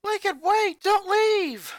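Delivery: high, loud call after him. Acted. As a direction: shout to stop him at the door. Sister calls after boy running off.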